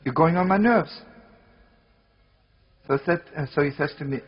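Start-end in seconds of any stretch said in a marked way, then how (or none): 0.0-1.0 retold yelling. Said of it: "I keep on yelling at him".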